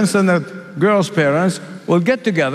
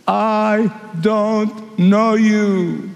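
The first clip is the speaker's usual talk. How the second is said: stern bridegroom; much slower than usual. Acted. Bridegroom rejecting the foolish.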